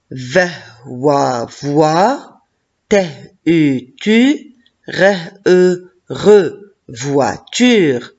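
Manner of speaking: teacher slowly builds voiture sound by sound: ve, wa, voi, te, u, tu, re. Shown as a demonstration. Teacher to pupils, sounding out voiture slowly. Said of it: "teacher sounds out voiture".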